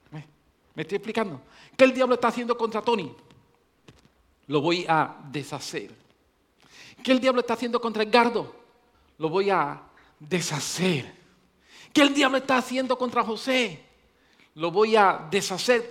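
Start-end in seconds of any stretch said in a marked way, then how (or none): 1.8-5.9 voicing Jesus. 7.0-15.9 voicing Jesus.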